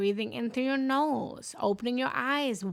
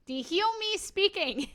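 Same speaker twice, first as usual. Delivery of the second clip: laughing; 10 semitones higher, 4 dB louder than usual. Real, not acted. Laughing at her own chatter.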